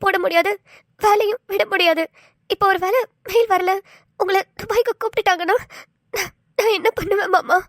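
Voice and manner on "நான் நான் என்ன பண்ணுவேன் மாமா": tearful. Acted. Wife fears husband leaving.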